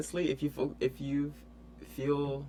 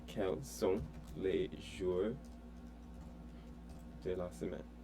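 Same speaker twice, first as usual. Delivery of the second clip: slow, soft Quels sont les jours de la semaine, each word apart; teacher slowing the French down for the student; slow model; 3 semitones lower, 8 dB quieter, slower than usual. Shown as a demonstration. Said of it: "slow model repetition".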